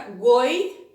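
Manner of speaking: "Goiânia" split into goi, â, nia with long pauses; syllable by syllable. Shown as a demonstration. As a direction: dictate "Goiânia" in separate pieces. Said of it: "dúvida em como separar".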